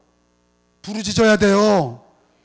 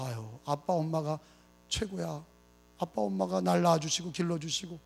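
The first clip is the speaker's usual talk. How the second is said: fond murmur; 6 semitones lower, 13 dB quieter than usual. Pretend. Grown child speaking fondly.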